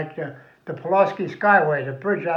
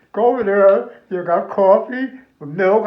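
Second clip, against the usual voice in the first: calling out louder, directing the troops; loud directions; 3 semitones higher, 9 dB louder than usual. Retold or imitated. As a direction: boom out the directions to the soldiers. Official directing returning soldiers.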